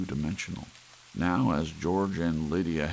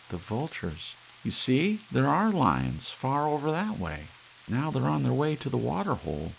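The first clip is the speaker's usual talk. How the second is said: much higher, louder wife; wife's voice; 10 semitones higher, 3 dB louder than usual. Acted. Wife pointing out lions to husband, high voice. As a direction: point it out to him, high and keen.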